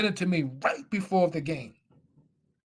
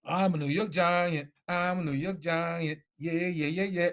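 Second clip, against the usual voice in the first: giddy self-talk; 2 semitones higher than usual. Retold or imitated. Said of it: "all happy and excited".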